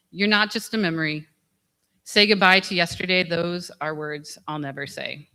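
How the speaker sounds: spoken song lyrics; recited lyrics. Real, not acted. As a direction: tribute reading of song words at a memorial. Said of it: "I will leave you with a song by a singer".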